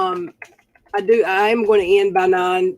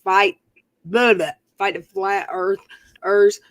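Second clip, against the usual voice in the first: slow mocking catchphrase; much slower than usual. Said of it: "Uni Rock's always talking about".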